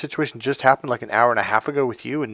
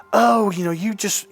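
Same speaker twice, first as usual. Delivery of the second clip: imitating an accuser, higher-pitched; mock-accusing, pitched up; mocking retold accusation; 10 semitones higher than usual. Retelling what they said to me, mocking accusation. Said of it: "here they are telling me".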